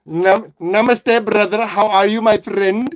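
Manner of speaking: lightly put-on Indian accent, drawn out. Streamer greeting a viewer as a friend, mock Indian accent.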